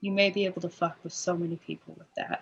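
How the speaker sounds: mumbling under breath. Voicing a character speaking quietly to another character: muttering. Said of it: "muttering this to Hawk".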